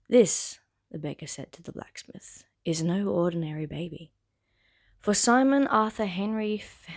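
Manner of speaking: animated, deliberate storybook reading; story narration. Acted. Reader sharing the Bridgerton prologue on YouTube, narrating. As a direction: read it out to listeners, stressing phrase openings. Reads the novel aloud.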